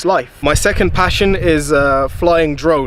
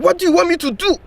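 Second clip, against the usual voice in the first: put-on high, exasperated African teacher accent; a fed-up teacher in a mock African accent; imitated African accent; 14 semitones higher, faster than usual. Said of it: "he did this funny accent voice".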